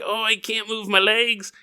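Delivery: mock helpless baby, a bit soft; whiny baby act. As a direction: play up being a big baby. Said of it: "acting like a baby at this point".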